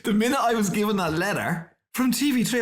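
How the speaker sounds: talking through laughter; telling it while still laughing. Real, not acted.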